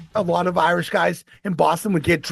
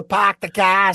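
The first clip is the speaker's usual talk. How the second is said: mock Boston "pahk the cah"; bad Boston accent; slower than usual. Strangers teasing a Bostonian, bad Boston accent. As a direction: imitate people doing a bad Boston accent. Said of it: "really bad Boston accent".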